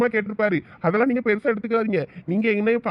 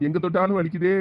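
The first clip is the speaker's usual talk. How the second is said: groaning, lower and pained; moaning in pain; 3 semitones lower than usual. Acted. Shankar alone, moaning over his bee-stung face. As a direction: whimper through the ache of a swollen face. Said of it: "ஐயோ, வலிக்குதே".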